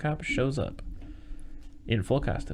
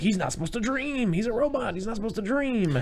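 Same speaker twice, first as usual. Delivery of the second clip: much higher, panicky mock alarm; mock panicked scientist; 11 semitones higher than usual. Scientists melting down over a robot's dream, high and panicky. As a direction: fret like a scientist in a meltdown.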